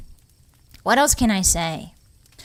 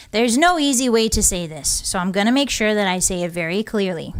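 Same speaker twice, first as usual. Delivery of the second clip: breaking bad news. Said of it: "So let me go ahead and read this".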